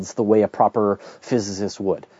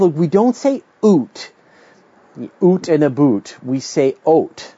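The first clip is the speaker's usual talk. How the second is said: imitating his wife; 4 semitones higher, slower than usual. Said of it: "and she says".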